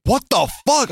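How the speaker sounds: mock shocked. Retold amazement.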